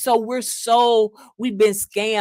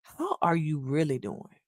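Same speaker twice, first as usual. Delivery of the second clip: sincere, caring; 4 semitones lower, 8 dB quieter than usual. Shown as a demonstration. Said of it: "stops, engages with you, and say these words".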